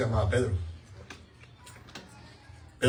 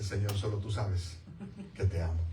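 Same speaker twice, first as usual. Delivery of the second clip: hesitant, unsure "Señor, solo tú sabes"; doubtful reply; 4 semitones lower, 5 dB quieter than usual. Retold or imitated. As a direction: Peter answering his Lord with doubt. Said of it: "ya lo digo con duda".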